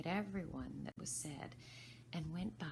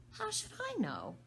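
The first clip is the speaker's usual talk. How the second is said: much higher, daring reply; bold retort. Acted. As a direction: surprise yourself with your nerve. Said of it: "surprised at her own courage".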